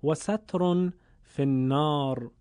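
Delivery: measured Arabic recitation of the saying; recited Arabic hadith. Acted. Teacher quoting the hadith to listeners, in reverent recitation. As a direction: recite the Prophet's words with reverence.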